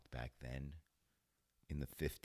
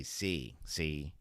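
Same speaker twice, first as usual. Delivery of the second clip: put-on louder old-movie mobster; mock gangster; 5 dB louder than usual. Playing a gangster saying see, mock mobster voice. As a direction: play a thirties tough guy. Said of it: "I'm a gangster".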